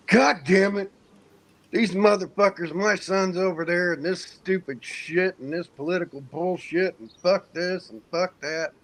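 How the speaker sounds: mock a furious father cursing at the TV news; furious ranting father. Dad yelling at the TV about the war, furious mock rant. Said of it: "yelling at the C N N".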